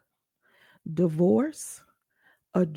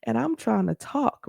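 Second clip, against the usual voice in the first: retold anger; 3 semitones higher than usual. Daughter protesting to father about being cut off, mildly angry. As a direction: protest in hurt disbelief, without raising the volume. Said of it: "being so angry with him".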